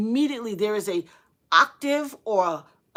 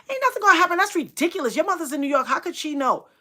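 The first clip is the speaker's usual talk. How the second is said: dismissive scoff; 7 semitones higher, 4 dB louder, faster than usual. Retold or imitated. Friend dismissing the warning.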